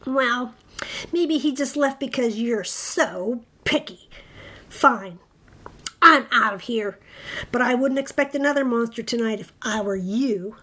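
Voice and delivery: sulky monster in a big voice; offended monster's parting shot; huffy monster. Acted. Rejected monster sulks and leaves.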